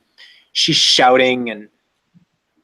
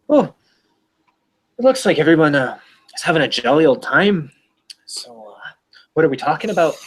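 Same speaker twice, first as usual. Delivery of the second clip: put-on bastardized Irish accent; 4 semitones higher, faster than usual. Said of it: "a bastardized Irish accent".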